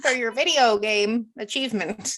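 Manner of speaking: mocking proud mom. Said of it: "You sound like a mom".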